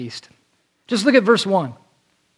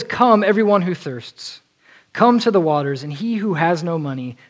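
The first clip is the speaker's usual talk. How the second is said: scripture reading. Acted. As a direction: read the invitation solemnly. Preacher reads scripture aloud.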